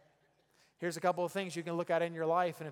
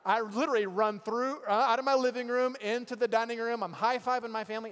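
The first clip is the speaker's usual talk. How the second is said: excited; 5 semitones higher, 6 dB louder than usual. Retold or imitated. Recounting celebrating touchdown.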